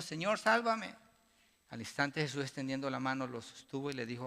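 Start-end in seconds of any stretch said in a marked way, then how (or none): 0.0-1.0 scream for help. A narrator's reading. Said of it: "gritó, diciendo".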